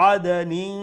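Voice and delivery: "আদনিন" with its final n hidden in a held nasal hum; nasalised, lingering ending on "আদনিন"; ikhfa on nun. Shown as a demonstration. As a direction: hum the last n of "আদনিন" lightly through the nose. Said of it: "নুন ইখফা করি পড়বো".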